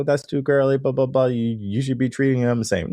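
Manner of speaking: lightly voiced mocking naysayer; mocking critic. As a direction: mimic a dismissive objector. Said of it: "You might go".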